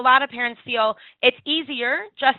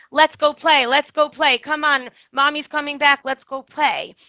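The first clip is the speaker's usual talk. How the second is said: louder, higher, sing-song push to go play; mock cheery coaxing; 4 semitones higher, 7 dB louder than usual. Other adults coaxing a crying child, mock cheery. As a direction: brightly hurry a child along. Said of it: "Everyone up until then was saying".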